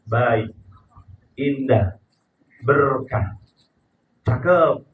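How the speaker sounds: low, falling single words; pleasant intonation. Shown as a demonstration. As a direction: let each word drop gently, one by one. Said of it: "Coba lihat kata-kata yang positif". (intonasi rendah, enak didengar)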